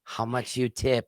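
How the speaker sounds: slow, lightly done mock Asian accent. The masseuse asking a client about tips, slow mock Asian accent. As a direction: ask about the tip in a put-on accent. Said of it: "Stop doing the accent".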